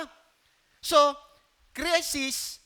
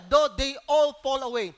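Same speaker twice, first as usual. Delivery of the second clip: quoting Peter; 4 semitones lower, 4 dB louder than usual. Retold or imitated. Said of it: "sabi ni si Peter nagsalita".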